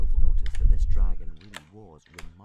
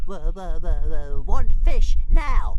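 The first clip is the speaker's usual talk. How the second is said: high stuttering dragon voice, building louder; stammer, then burst out high and loud; demanding baby dragon; 9 semitones higher, 5 dB louder, slower than usual. A narrator's reading. Hungry Toothless pesters Hiccup for fish, high demanding stutter.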